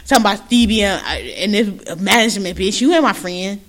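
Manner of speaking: lightly imitated Puerto Rican accent; mock a muddled Puerto Rican accent, lightly; Jocelyn. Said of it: "Jocelyn be struggling over".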